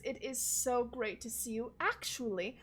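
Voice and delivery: lightly voiced gushing host; jovial nobleman. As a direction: gush about your guests. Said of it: "he goes".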